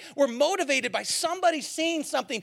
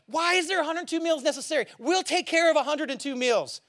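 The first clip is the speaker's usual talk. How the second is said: fired up; 6 semitones higher than usual. Retold or imitated. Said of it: "and go".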